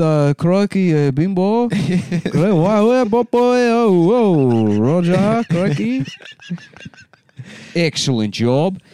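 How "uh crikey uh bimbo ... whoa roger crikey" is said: high, squeaky Aussie mock accent; Australian Chinese accent. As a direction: play up a silly Aussie-Chinese voice. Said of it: "it's very hard to do, uh, Australian Chinese".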